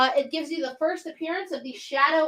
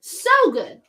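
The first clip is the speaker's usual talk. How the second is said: excited; 5 semitones higher, 4 dB louder than usual. Real, not acted. Raving about Moon Knight run.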